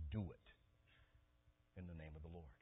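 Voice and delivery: very slow, soft, solemn divine voice; hushed slow voice of God; voice of the Lord. Retold or imitated. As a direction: speak it slowly as God commanding. Voicing the Lord's command.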